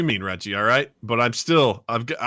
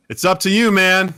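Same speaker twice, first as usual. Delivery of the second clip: raised, louder acted warning; threatening ultimatum; 5 semitones higher, 4 dB louder than usual. Brandon warns the cult leader, raised threatening voice. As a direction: press the threat, pitched up.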